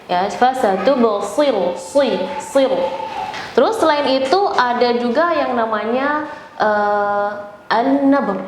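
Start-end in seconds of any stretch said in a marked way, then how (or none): 0.1-2.8 fasatubsiru slow, with a heavy shad on si; emphatic shad. Shown as a demonstration. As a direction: break out si, siru with a dark shad. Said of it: "Jangan dengan sin".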